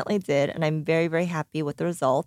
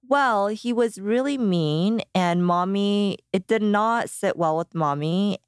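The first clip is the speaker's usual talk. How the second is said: slow mommy explaining; 3 semitones higher, slower than usual. Retold or imitated. Mom explaining to her daughter.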